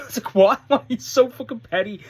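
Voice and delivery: high, loud what with a real laugh; laughing disbelief. Real, not acted. Laughing disbelief at petty promo.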